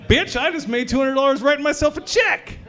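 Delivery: high, gleeful brag; excited gloating. Pretend. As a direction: crow about the easy money. Gloating over free money.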